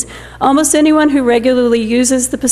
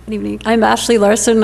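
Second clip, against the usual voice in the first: hoarse, worn-out voice; raspy voice, barely holding up; losing voice. Real, not acted. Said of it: "I'm losing my voice".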